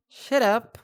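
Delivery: curt mock shut-down; mock snap back. Streamer imagines snapping back at her own child, mildly mock curt. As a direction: brush the kid off. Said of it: "And I would be like".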